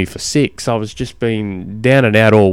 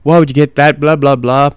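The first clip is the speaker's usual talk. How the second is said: dismissive scoff; 5 semitones higher, 4 dB louder than usual. Retold or imitated. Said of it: "the ones that hate it".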